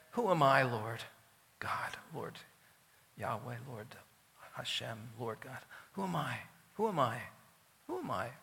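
hushed, halting prayer to God; humble awe. Acted. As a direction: drop to a near whisper, overwhelmed and unworthy. David humbly addresses God in prayer.

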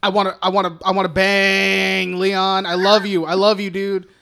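lightly acted lovestruck pleading; Natalie Portman. Podcaster parodies the extended cut's romance, mock lovestruck plea. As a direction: gush a hammed-up confession of love. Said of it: "Natalie Portman being like".

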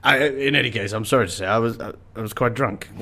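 put-on tipsy, apologetic old raconteur; Rowley Burkis. Drunk old colonial ends his anecdote, sheepishly tipsy. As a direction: wind down into a drunken confession. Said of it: "Rowley Burkis from".

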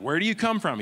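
Pilate insisting. Retold or imitated. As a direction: push harder the second time.

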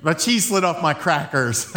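corrected line with a chuckle; laughing. Shown as a demonstration. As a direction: say it through a laugh. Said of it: "am I saying it right?".

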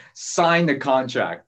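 slow, emphatic "Sign the contract", falling; drawn-out "Sign", driving down on "contract"; chopped-down downswing. Shown as a demonstration. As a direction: chop down hard through "contract". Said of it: "chop down".

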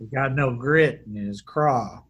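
slow, drawn-out mock wrestler line; a hint of a gruff old wrestler, slowly; lightly voiced wrestler. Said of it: "the Honky Tonk Man's explanation".

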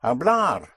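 Hablar, weight on a long final LAR; stress on the ending. Shown as a demonstration. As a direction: model Hablar as hab-LAR. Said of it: "you hit the ending".

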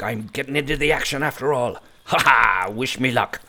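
excited. Acted. Dwarf rushing off to battle.

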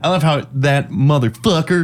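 playful imitation of a Southern accent. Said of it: "like, way Southern".

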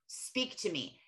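slow, hushed plea to God; soft prayer. Retold or imitated. Mom showing her quiet prayer to God, slow and hushed. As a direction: murmur it as an intimate prayer, slowly.

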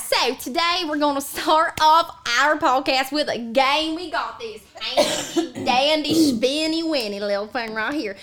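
lightly voiced Southern granny; Bertha. Granny shows listeners the game spinner, Southern granny voice. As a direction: explain it as a folksy old Southern grandma.

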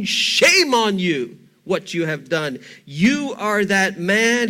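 slow, heavy condemnation; brutal confrontation. Acted. Nathan rebukes King David to his face, slowly and harshly. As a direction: drive each word home. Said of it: "He confronts him brutally".

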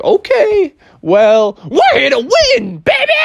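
high shouted boast; cocky shout. Acted. Froggy boasting to the kittens, high shout. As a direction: yell it at the kittens.

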